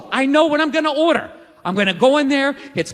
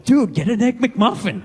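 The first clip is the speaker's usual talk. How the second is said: tempting inner voice. Retold or imitated. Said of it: "this other voice going".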